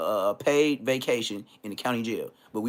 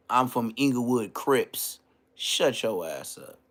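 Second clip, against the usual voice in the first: mocking imitation; 2 semitones lower, 5 dB quieter, slower than usual. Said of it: "you sound like Ann Hefe".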